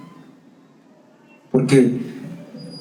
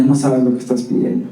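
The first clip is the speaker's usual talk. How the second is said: wife's warning; 4 semitones lower than usual. Retold or imitated. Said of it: "Y ella".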